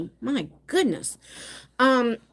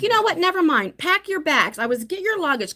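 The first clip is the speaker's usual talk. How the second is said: mock angry mom; 5 semitones higher than usual. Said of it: "And then I was like".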